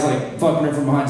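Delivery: normal talking voice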